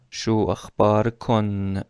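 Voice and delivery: شو اخبار کن with a clear "kon" at the end, slow; plural form. Shown as a demonstration. Teacher modelling the plural greeting slowly. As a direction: say شو اخبار کن as "shu akhbar kon". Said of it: "برای جمع".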